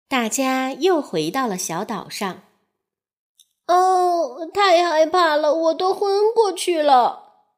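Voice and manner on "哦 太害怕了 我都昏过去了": little fish. Acted. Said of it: "醒过来的小鱼说".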